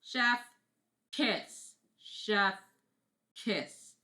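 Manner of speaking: playful chef's kiss exclamation. Pretend. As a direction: smack it out like a chef praising food. Mimes chef's kiss praise.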